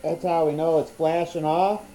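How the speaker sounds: muffled through a breathing mask. Real, not acted. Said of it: "Sorry if it's muffled, I got my breathing mask on".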